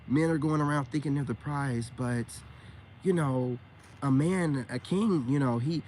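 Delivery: imitating her smiling monotone; mock a therapist's even, measured talk. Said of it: "doing it with a smile and a monotone".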